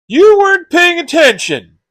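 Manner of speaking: loud, high outburst of blame; angry accusation. Acted. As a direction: snap an accusation at your careless friend. Quarrel over stolen gifts.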